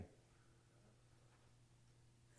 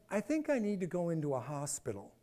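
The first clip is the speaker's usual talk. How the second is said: soft, hushed confession; quiet admission; 8 dB quieter than usual. Retold or imitated. Sick young man admitting he needs a hospital, softly. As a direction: say it small and quiet, giving in. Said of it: "I said".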